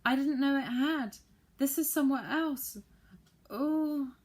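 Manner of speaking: high, loud panicked cries; shrieking on. A narrator's reading. Saucepan man lost in a strange land, shrieking high and loud. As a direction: keep the shocked shriek going. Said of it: "shrieked the saucepan man".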